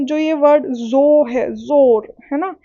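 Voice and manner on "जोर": slow जोर, weight on the opening जो; stress at start. Shown as a demonstration. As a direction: stretch and press the जो in जोर. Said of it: "इस पे ज़्यादा force जा रहा है". (जोर को धीरे, जो पर बल देकर)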